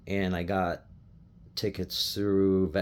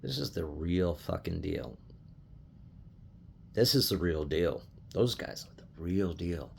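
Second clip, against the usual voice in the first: awed hush; 4 semitones lower, 9 dB quieter than usual. Retold or imitated. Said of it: "you're just like".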